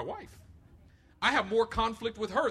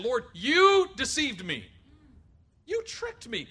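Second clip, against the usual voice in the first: mock complaint; 5 semitones higher, 7 dB louder, slower than usual. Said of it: "That's what Jeremiah's saying".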